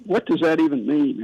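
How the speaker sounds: usual speaking voice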